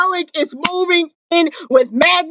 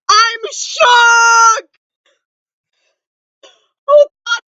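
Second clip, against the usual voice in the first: higher, shouted disbelief; shocked shout; 4 semitones higher, much slower than usual. Real, not acted. Fan reacting to the moving-in news, excited shout. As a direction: let the shock burst out. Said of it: "the loudest you will ever hear me".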